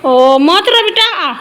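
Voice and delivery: drawn out and gently coaxing; slow, loving reassurance; slow tender comfort. Real, not acted. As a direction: soothe a sobbing little one. Parent comforting a crying toddler.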